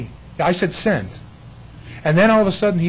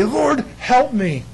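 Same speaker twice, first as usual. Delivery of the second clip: mock plea; 8 semitones higher, 4 dB louder, much slower than usual. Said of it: "what does he say".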